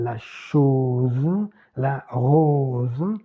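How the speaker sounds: chose and rose with a long closed o; closed French o. Shown as a demonstration. Teacher contrasting French with Italian, closed o in chose and rose. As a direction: round the o tight in chose and rose. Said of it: "Fermé en français".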